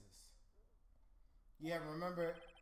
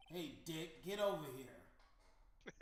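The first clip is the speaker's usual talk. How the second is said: boss calling out; 4 dB louder, slower than usual. Acted. Boss calling Gumshoe over.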